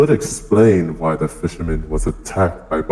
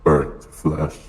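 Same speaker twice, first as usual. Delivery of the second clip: menacing villain voice; devil voice. Acted. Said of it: "That sounded terrifying".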